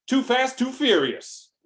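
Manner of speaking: very high, loud battle cry; shouted catchphrase. Acted. Trucker challenging the blob to race, high shouted catchphrase. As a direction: whoop it out as a challenge.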